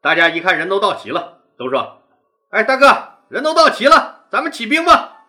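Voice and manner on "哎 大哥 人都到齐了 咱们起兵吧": eager, louder. Acted. Men eager to start.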